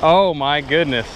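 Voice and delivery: excited, straining shout; hauling in a big one; fighting a fish. Real, not acted.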